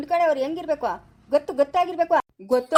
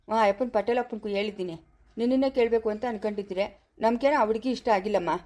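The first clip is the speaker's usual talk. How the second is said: put-on a lower, firm old grandfather; lightly voiced grandfather; 4 semitones lower than usual. Grandfather telling the girl she is the one they want, lower and firm. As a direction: speak as the family elder, settling it.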